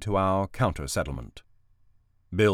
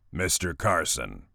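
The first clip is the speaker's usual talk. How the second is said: rumbling; 2 semitones lower, 3 dB quieter than usual. Acted. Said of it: "Brick rumbled".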